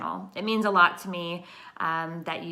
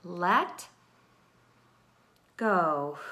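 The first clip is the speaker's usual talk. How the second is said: slow, hushed words spaced between long breaths; breathing mantra demo. Shown as a demonstration. Meditation teacher demonstrating the let-go breathing technique, slow breathing mantra. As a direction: say each word slowly on its own breath. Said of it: "say to yourself the word".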